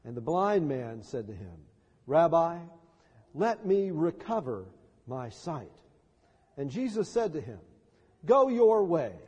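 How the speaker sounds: measured, formal gospel reading; scripture reading. Acted. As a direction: read the text with weight. Reads the gospel aloud.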